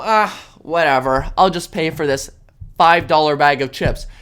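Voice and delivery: lightly voiced bored shrugger; apathetic shopper mock. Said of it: "Don't just sit by and go".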